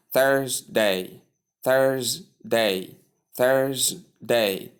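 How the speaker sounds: Thursday in two careful parts, THURS-day; slow model of Thursday, long first vowel; two-syllable Thursday. Shown as a demonstration. Teacher drilling Thursday for learners, two careful syllables. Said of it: "there are two syllables here".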